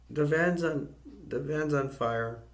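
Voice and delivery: retold alarm, starting high and then slowing; alarmed cry. Debbie alarmed at burning van.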